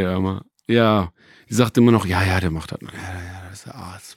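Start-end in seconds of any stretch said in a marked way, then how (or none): 2.1-4.1 low, trailing off very softly; placating phone talk. Retold or imitated. Acting out family phone calls with grandma, placating. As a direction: fob them off in a fading murmur. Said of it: "So funktionieren Telefonate mit Oma".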